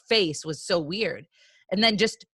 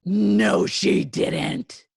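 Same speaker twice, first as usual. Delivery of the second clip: loud, incredulous protest; real amazement at juicy gossip; shocked disbelief; 5 dB louder, much slower than usual. Real, not acted. Listener reacting to friend's story, shocked disbelief.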